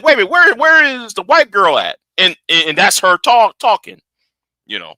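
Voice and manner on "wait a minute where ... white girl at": surprised. Retold or imitated. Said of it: "I said".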